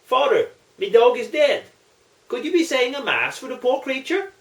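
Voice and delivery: a hint of a mournful old Irishman; pleading Irish parishioner. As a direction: beg the priest a mass for the dog. Muldoon voiced in joke.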